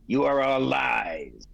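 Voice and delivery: slow, loud, high accusation; villain raging at her goddess, shouting slowly; furious shout. Acted. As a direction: hurl it at the goddess.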